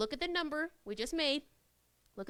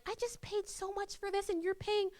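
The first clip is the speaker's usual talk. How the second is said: mild annoyed complaint; 7 semitones higher than usual. Retold or imitated. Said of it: "a little angry sometimes".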